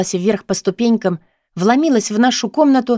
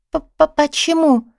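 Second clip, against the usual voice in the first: much higher, slow, stammered question; stammering; 8 semitones higher, much slower than usual. A narrator's reading. Heroine on the phone, stammering in panic. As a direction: stutter the word, fighting panic. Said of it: "осторожно спросила".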